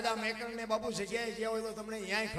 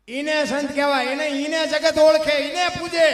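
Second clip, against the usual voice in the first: loud, high proclamation; preaching at full force; 6 semitones higher, 14 dB louder than usual. Acted. Preacher proclaiming what makes a saint, loud and rising. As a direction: ring it out over the crowd.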